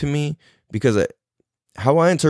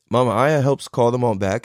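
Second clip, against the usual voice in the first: ordinary talk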